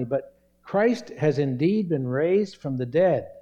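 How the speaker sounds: slow, emphatic verse with "indeed" stressed. Real, not acted. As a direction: declare it slowly, leaning on "indeed". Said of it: "I stress that word indeed".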